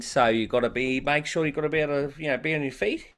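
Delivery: Australian accent gliding toward clipped. Shown as a demonstration. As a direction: slide into an Aussie voice, lifting every line. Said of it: "But then I wanted Australian".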